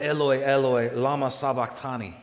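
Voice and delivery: a preacher voicing Jesus' loud cry; anguished cry. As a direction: cry it out as if from the cross. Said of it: "when he cried".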